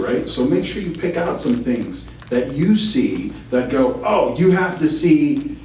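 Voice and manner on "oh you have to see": slow, emphatic urging on "you have to see". Shown as a demonstration. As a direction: lean on "have to see" to sell it. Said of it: "put the emphasis on that".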